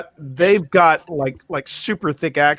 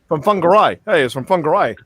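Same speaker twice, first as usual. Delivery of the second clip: imitated Kiwi bloke's accent; New Zealand accent; faster than usual. Introducing the neighbour's husband Dave, imitated New Zealand accent. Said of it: "lovely to hear the New Zealand accent again".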